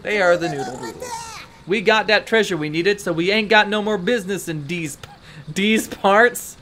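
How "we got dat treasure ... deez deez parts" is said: lightly faked mobster speech, "these" becoming "deez"; mobster "dese". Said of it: "might as well have just spelled it D E E Z".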